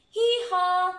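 loud, high drawn-out hee-haw; donkey bray. Acted. Donkey braying in a story.

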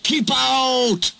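high, forceful shout to stay away; hostile order. Acted. Engines bar tired Duck from the shed, hostile shout. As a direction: cry out to block the way.

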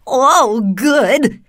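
high, loud cheer; delighted exclamation. A narrator's reading. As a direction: exclaim as the thrilled Tin Woodman. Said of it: "exclaimed the Tin Woodman".

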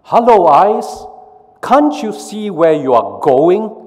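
high, loud scolding brain voice. Acted. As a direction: chide the eyes from up high. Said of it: "says the brain".

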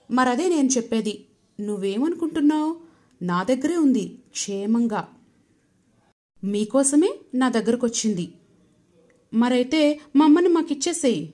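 put-on high, loud, insistent child; loud demand. A narrator's reading. Child insists the god return mother, loud demand. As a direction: demand mother back at full voice.

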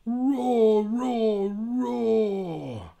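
high, loud roaring bear voice; loud roaring cranky bear. Acted. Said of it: "Roar went the cranky bear".

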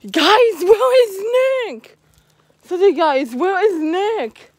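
slow, drawn-out anxious call. Real, not acted. Vlogger missing Nick, slow anxious call. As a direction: stretch it out, worried for Nick. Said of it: "I honestly need him right now".

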